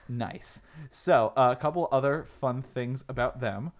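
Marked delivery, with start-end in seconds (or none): 0.1-0.6 a quick whispered approval. Real, not acted. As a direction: whisper it back to her.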